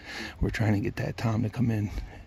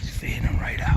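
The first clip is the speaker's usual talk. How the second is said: wildlife watching whisper; 3 dB louder than usual. Real, not acted. Turkey close, hunter hiding.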